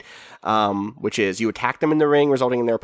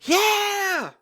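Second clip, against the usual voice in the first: high, drawn-out yell; crowd cheer. Pretend. Crowd cheering for Bluff City, high mock yell. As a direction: whoop like a fan in the stands.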